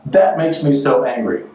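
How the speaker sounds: slow, emphatic mock outrage; mock anger. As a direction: spell out the complaint with hammed-up anger. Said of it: "people go, "You make me so angry".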